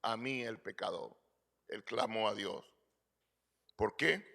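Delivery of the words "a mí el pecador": slow, mild cry that sinks away. Retold or imitated. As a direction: imitate a slow cry for mercy, fading on the last words. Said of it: "sino que clamó".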